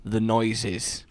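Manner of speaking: low, halting calm; uneasy reassurance. Real, not acted. Player soothing after computer noises, low halting reassurance. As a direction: reassure in short, careful pieces.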